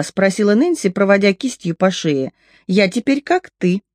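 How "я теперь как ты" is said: put-on a light quiver of joy in a girl's voice; shaky with barely held delight; girl teasing the boy, trembling with glee. A narrator's reading. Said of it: "Голос у неё дрожал".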